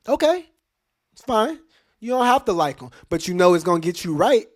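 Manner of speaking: high, bright okay then insistence; lively high-pitched retort; animated concession. Real, not acted. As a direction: concede loudly then push the point. Conceding to hypothetical critic.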